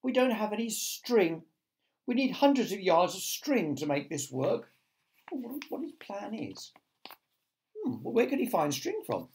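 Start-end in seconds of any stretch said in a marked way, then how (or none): 0.0-4.7 put-on higher, apologetic boyish voice; mildly dejected confession; murmured apology. A narrator's reading. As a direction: admit defeat sheepishly. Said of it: "James murmured".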